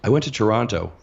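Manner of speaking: increasingly high, eager small talk; mock naive enthusiast; imitated chatty acquaintance. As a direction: climb in pitch toward a hopeful question. Imitating everyone who asks about Dave.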